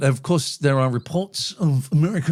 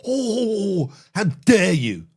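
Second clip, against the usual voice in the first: mock crying; 5 semitones higher, much slower than usual. Mock wounded outrage.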